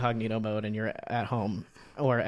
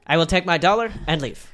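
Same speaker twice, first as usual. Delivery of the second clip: loud, higher mock French accent; 5 semitones higher, 8 dB louder than usual. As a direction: announce it in a hammed-up French accent. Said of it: "I don't know why she's French now".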